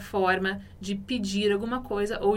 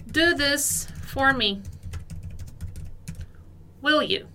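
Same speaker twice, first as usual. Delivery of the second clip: slow model reading; 2 semitones higher, slower than usual. Shown as a demonstration. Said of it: "nosso segundo exemplo".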